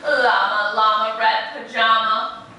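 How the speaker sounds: sing-song picture-book rhythm; animated read-aloud to a class; reading to children. A narrator's reading. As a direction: lilt it like a bedtime story for little ones. Reads rhyming picture book aloud.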